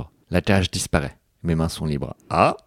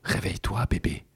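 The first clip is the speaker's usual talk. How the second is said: softer murmured wake-up call; 6 dB quieter than usual. Acted. Christian waking her gently, in a soft murmur. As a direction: murmur it close to her ear. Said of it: "murmure-t-il".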